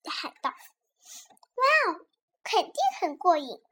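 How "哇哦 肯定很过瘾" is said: wow leaping up high, then settling; mildly thrilled cheer; light excited character quote. Acted. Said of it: "莉莉兴 奋 地喊道".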